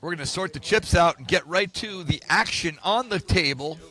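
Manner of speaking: booming sports announcer read. Shown as a demonstration. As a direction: announce it like a TV host. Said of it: "That's my announcer voice".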